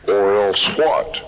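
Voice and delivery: very low and slow, a lightly voiced God; God's reply. God, answering the preacher's ultimatum, very low and slow.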